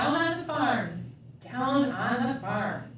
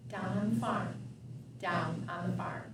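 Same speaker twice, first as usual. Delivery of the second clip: fading lullaby; 5 semitones lower, 7 dB quieter than usual. Acted. Book ends, kid asleep.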